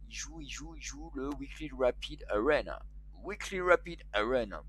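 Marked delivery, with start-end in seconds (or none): 1.3-2.8 French streamer showing off an English accent; playful attempt at an English accent. Shown as a demonstration. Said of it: "Vous avez vu mon accent?". 3.2-4.6 English title pronounced with playful pride in the accent; self-conscious English accent. Shown as a demonstration. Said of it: "Vous avez vu mon accent?".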